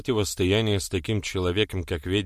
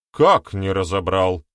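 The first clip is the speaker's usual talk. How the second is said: gasped; 6 dB louder, slower than usual. Acted. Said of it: "ахнули они обе".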